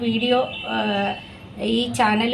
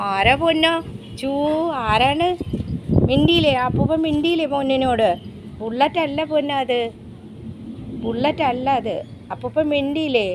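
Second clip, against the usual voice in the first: higher, cooing questions to a pet; 3 semitones higher than usual. Real, not acted. Owner asking her dog about the old man, cooing pet talk.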